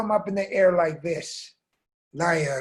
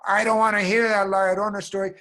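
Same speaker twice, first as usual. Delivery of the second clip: loud, raised-pitch scolding; exasperated mother; 4 semitones higher, 6 dB louder than usual. Acted. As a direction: cut the children off firmly. Angry mom rejects the story.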